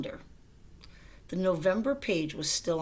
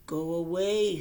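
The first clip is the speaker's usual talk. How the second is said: grumpy voice; 5 dB louder, slower than usual. Acted. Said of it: "said a voice".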